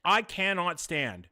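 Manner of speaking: ranting. Real, not acted. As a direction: stretch out each word in disgust.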